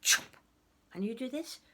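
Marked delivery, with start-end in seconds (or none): 0.0-0.4 short, loud chop; abrupt axe-stroke noise; wood-chopping sound. Acted. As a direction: imitate an axe hitting wood. He was cutting the wood.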